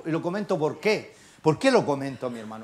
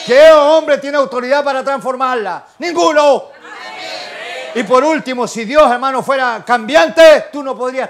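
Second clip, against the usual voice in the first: loud, high, challenging sermon; full-force preaching; 4 semitones higher, 10 dB louder than usual. Real, not acted. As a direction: thunder it at the congregation.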